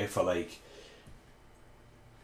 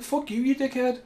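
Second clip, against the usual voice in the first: pitched-up mock rage; retold angry insult; 14 semitones higher than usual. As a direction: spit it back at the rude driver. Retold road rage in car.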